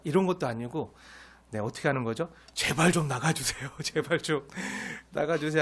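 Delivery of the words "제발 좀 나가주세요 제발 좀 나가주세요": lightly voiced, polite begging; mock humble pleading. Pharaoh humbly begging Israel, a mock polite plea. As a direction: beg softly and politely. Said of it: "간청하면서".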